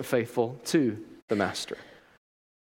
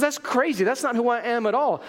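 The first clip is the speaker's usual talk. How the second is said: higher, emphatic dismissal; master's indignant denial; 6 semitones higher than usual. Acted. Master rejecting the servant's view, indignant. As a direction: brush off the accusation with disbelief. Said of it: "He says".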